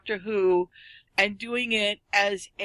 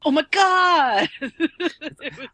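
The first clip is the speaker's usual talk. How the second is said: laughing; 7 semitones higher, 7 dB louder, slower than usual. Real, not acted. Laughing at the fangirl memory.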